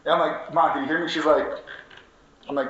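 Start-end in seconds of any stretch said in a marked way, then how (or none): 0.5-1.1 louder, higher insistent question; pressing mom. Retold or imitated. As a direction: demand she answer, raising the voice.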